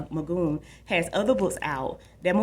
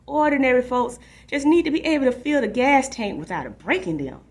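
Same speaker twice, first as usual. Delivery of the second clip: louder, higher mock rant at the TV; dad ranting at TV; 6 semitones higher, 5 dB louder than usual. Dad rants at the news on TV, louder and higher. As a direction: play dad sounding off at the news, raised voice. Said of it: "his voice is pretty loud".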